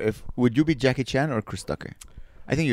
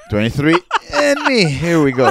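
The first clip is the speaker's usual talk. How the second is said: mock excited; 6 dB louder than usual. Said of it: "there's people like".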